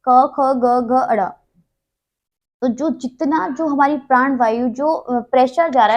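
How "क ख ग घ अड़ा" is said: क, ख, ग, घ, अड़ा said slowly one by one from the throat; teacher sounding out the क row, each sound apart; reciting consonants. Shown as a demonstration. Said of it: "तो अड़ा जब बोल रहे हैं ना इसको".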